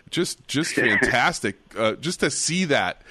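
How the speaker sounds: delighted chuckle breaking into the word; laughing. Real, not acted. Co-host recalling Mongolians at the track, laughing.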